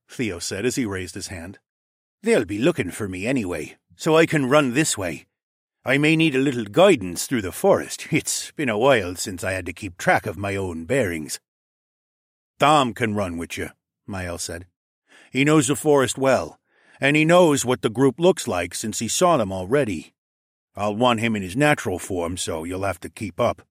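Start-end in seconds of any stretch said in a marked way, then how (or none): 2.2-11.4 lightly voiced orange dragon; volunteer with a touch of character voice; Theo. 12.6-13.7 lightly voiced wolf-pack alpha; Mael. 15.3-23.7 lightly voiced wolf-pack alpha; Mael.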